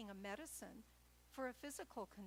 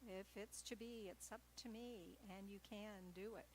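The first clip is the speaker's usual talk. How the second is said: softer, calm reassuring voice of the divine self; divine inner voice; 6 dB quieter than usual. Acted. The divine self encouraging the listener, soft and reassuring. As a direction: speak it gently, like an inner voice of encouragement. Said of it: "the voice of the divine self saying".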